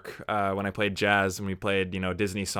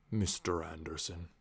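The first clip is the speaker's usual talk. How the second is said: lower, much softer, slow villain purr; menacing villain voice; 4 semitones lower, 11 dB quieter than usual. Acted. Watching The Matrix, mimicking the villain lower and slow. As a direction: say it like a cold movie villain.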